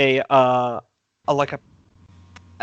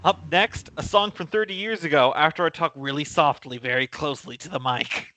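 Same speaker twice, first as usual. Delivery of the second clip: radio DJ voice; 3 semitones higher than usual. Pretend. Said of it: "that sounds like a radio station".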